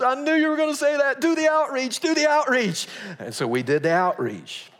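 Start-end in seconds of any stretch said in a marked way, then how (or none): 0.0-2.9 resigned pastor. Retold or imitated. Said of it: "He goes".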